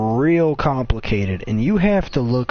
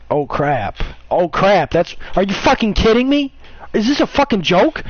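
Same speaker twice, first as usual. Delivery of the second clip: building from mild to a higher, louder mock rage; mock furious Brian; 8 semitones higher, 4 dB louder than usual. Retelling Brian raging at Shots, building mock fury. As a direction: ramp "Oh crap" up into a hammed-up outburst. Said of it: "and then Brian was like".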